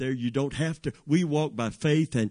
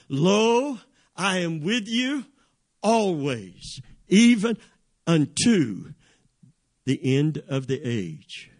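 solemn scripture declaration; 3 semitones higher, slower than usual. Acted. Preacher quoting Jesus' promise to the congregation, declaimed phrase by phrase. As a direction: proclaim each phrase on its own.

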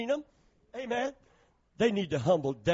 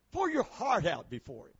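softer repeat, pitched down; quiet; 5 dB quieter than usual. Real, not acted. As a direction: say it back gently, almost to yourself.

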